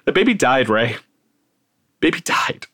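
the words barely get out through tears; crying. Retold or imitated. Telling Ray the baby died, crying. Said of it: "I started to cry".

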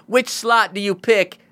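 high-pitched put-on rapper voice; rapper impression. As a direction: offer the choice as the star. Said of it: "so he'd be like".

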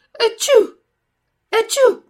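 two big, high, loud sneezes. A narrator's reading. Puppeteer sneezes, moved to pity, with loud sneezes. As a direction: sneeze explosively, twice. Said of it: "e fece altri due starnuti".

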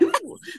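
high, short mock gagging noise; imitated gag. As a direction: act out a quick retch. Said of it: "like, gagging".

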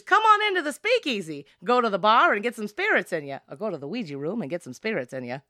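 lightly put-on speakeasy host luring guests in; sing-song invitation, starting high and loud, easing off; barker's pitch. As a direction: usher them in like a haunt host. Acting out a show barker's pitch.

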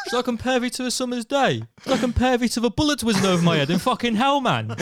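loud, high mock-poetic declaiming; hammed-up recital. Mocking Sandy McNabb reading Shakespeare, booming mock-grand recital. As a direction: recite it like a grand actor gone squaddie.

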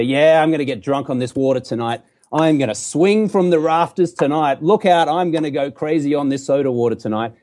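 playful mock bravado; cheeky joke. Shown as a demonstration. Man teaching a comeback for when mocked for not drinking, cheeky. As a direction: say it with a cheeky grin. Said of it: "say it with a little cheeky smile".

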